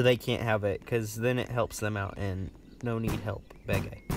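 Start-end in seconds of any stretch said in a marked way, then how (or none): 2.8-4.0 low, soft caveman-like mumble; odd broken talk. Pretend. Gamer explaining their key card tactic, odd low broken talk. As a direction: slip into broken speech, pitched down. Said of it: "Why did I talk like that".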